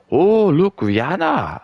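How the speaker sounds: shrieking high with excitement; mock excited fan. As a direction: gush like a starstruck fan. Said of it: "they'll be like".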